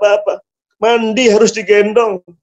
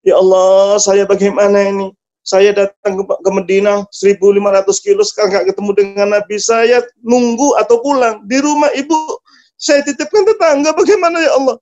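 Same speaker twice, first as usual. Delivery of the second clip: bewildered plea. Acted. Son torn between waiting and mother, building bewilderment. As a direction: let helpless confusion build, pitch rising steadily. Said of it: "Dia bingung".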